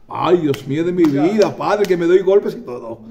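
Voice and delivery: acted amazement. Acts the healed woman's amazed reaction.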